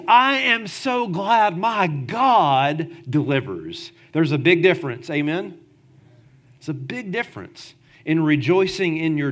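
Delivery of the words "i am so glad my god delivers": sincere gratitude. Retold or imitated. Preacher voices David's true praise to the church, slow and sincere. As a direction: say it with settled thankfulness.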